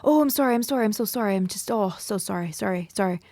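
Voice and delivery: gushing mock apology that tapers off; apologetic Canadian. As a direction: apologize over and over as a polite Canadian. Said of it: "So the Canadian goes".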